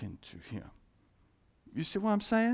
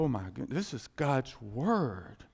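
awed reverence; 3 semitones lower than usual. Acted. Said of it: "when you look at the word".

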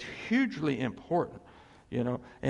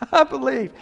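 raised plea, easing off toward the end; crying out; 10 semitones higher, 10 dB louder than usual. Acted. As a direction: start high and loud, then let it settle. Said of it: "the man cried out".

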